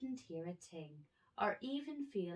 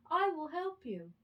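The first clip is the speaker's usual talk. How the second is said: high, loud mouse promise; a tiny mouse, earnest; squeaky mouse; 11 semitones higher, 7 dB louder than usual. A narrator's reading.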